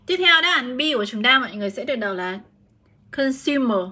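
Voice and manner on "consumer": consumer with a long U in the middle; U sound in consumer. Shown as a demonstration. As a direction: model "consumer", middle syllable pronounced with U. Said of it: "được đọc cho cô là âm U".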